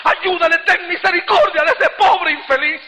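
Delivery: retold crying prayer, pitched high; urgent, high-pitched intercession; tearful plea. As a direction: beg for mercy on another, a touch tearful. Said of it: "Empecé a llorar y le digo".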